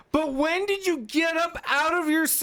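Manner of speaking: squeaking with laughter; laughing high shout. Real, not acted. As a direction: ask it while laughing hard.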